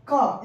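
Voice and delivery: isolated "क" as hard C; letter sound demo. Shown as a demonstration. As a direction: say "क" alone, a k sound for C. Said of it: "इसका उच्चारण क्या है".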